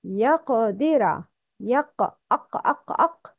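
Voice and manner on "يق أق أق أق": يق with a heavy, full qaf. Shown as a demonstration. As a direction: drive the qaf from the throat. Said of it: "Letter Qaf is heavy".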